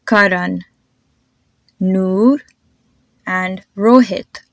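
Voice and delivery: "Karan", "Noor", "Rohit" with light, soft consonants; soft Indian consonants. Shown as a demonstration. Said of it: "my consonants just sound a whole lot softer".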